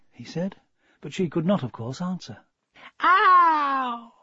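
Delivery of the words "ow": sharp high yelp of pain; high pained cry. Acted. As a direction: yelp it out, hurt. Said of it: "cried Smasher".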